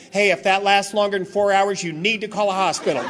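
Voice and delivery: hurried mock ad warning; frantic disclaimer voice. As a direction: rattle off the commercial's fine print. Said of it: "a little higher pitched, more frantic voice".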